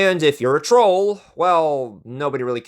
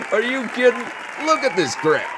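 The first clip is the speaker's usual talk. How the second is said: lightly voiced crony, mocking and amused; scoff, then laugh it off; scoffing political backer; 2 semitones higher than usual. Backer assures the mayor he'll win governor, lightly voiced mocking crony.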